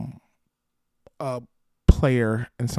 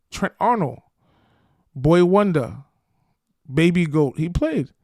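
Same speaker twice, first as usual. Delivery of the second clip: excited praise; 5 semitones higher, 5 dB louder than usual. Real, not acted.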